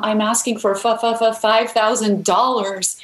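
imitated nervous stuttering; scared stutter. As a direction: catch repeatedly on the first sound, mimicking a scared stammer. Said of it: "I started stuttering".

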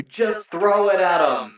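high, slow mock yell; Tethrin yelling up. Halfling Tethrin yelling up to the player, high mock yell. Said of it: "Tethrin yells up at you".

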